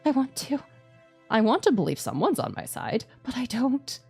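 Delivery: scared horror game streamer. Acted. Distrustful plea.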